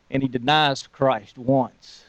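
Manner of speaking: slow, soft and grave; a somber hush as he denies Christ. A narrator's reading. Somber retelling of the denial.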